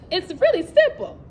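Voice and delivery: can't stop laughing while making the point. Real, not acted. Laughing after acted classroom threat.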